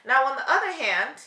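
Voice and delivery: usual speaking voice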